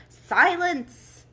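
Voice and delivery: shouted high and loud; calling out. A narrator's reading. King silencing the whole court, shouting. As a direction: bellow for silence. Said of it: "called out".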